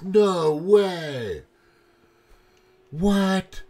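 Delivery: high, loud mock-shocked cry; drawn-out, high-pitched incredulity; imitated disbelief. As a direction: act out a friend's stunned reaction. Acts out coworker's shocked reaction.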